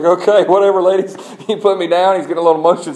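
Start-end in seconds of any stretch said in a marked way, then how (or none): 0.0-1.2 put-on bored toddler. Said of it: "He's like".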